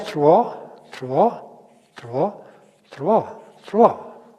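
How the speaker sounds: evenly spaced beats on each "trois"; counted rhythm. Shown as a demonstration. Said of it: "C'est ça le rythme". (« trois » scandé, un temps à la fois)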